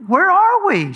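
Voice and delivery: high, loud, alarmed question; mock alarm. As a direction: ask it like a lost husband starting to panic.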